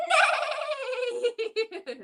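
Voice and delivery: high whinnying neigh; laughing neigh; horse neigh. Pretend. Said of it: "What sound does this horse make".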